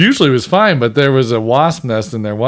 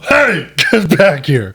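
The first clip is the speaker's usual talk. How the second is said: drawn-out, higher-pitched mock holler; mock calling-out; 4 semitones higher, slower than usual. Joking about punching at bees, mock holler. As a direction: playfully call after someone escaping.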